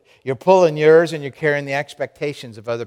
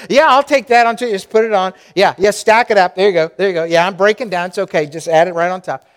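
overloaded people-pleaser; 5 semitones higher, 6 dB louder, faster than usual. Acted. Acting overloaded person.

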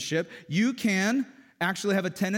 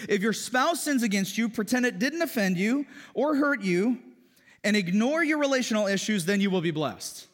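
higher, sarcastic mock reading of the verse; mock stupid version; 5 semitones higher than usual. Pastor mocking how couples misread the verse, sarcastic and high. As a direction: read it like a twisted, foolish rule. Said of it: "This is the extremely stupid version".

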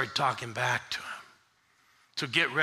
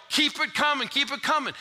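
high rhythmic call-back; elders' yell; 11 semitones higher, 4 dB louder than usual. Retold or imitated. Elders urging the preacher on, high call. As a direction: egg the preacher on from the pews. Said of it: "the elders yell".

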